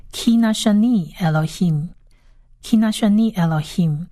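"Ki nashani Elohim" read out carefully, twice; Hebrew reading demo. Shown as a demonstration. Teacher reviewing the first line, careful Hebrew reading. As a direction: model "Ki nashani Elohim" evenly for learners. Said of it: "再来复习一次所有的念法".

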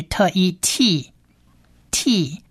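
"特一T，T" spelled out sound by sound. Shown as a demonstration. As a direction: slowly blend "特" and "一" into "T". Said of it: "发音发特的音".

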